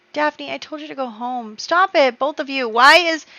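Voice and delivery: high-pitched telling-off; exasperated scolding. Pretend. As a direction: scold them, pitch jumping up. Scolding a disobedient game character.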